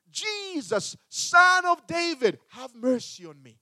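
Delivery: high, loud desperate plea; crying out for mercy. Retold or imitated. Blind beggar calling to Jesus, high pleading cry. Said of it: "he began to cry".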